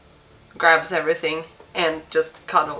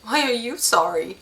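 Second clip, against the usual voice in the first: distraught; 6 semitones higher than usual. Acted. Distraught widow questions messenger.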